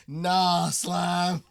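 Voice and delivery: loud, high, laughing refusal; loud protest. Real, not acted. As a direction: shout it down in disbelief.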